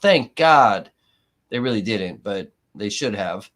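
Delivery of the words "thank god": loud relieved shout of Thank God; mock shout. The jury shouting in relief, loud mock cry. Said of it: "Did you hear him shout out".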